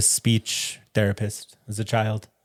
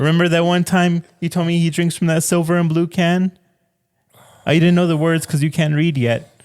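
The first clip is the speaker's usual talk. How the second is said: high, sweet therapist voice; 6 semitones higher, 4 dB louder than usual. Pretend. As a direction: gently coax a young patient. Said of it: "act out a possible therapy session".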